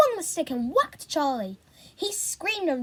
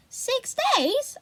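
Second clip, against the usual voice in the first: very high rising disbelief; shocked question; 12 semitones higher, 4 dB louder than usual. A narrator's reading. Boy hearing his sister waited six days, high shocked rising question. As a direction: gasp it out amazed.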